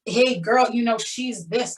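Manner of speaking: put-on "hey girl" attitude; sassy stereotype. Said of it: "she's from the hood and the, the neck was craning".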